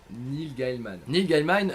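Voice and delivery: stuffy nose, tripping on the name; blocked nose. Real, not acted. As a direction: say it with a cold. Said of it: "j'ai le nez bouché".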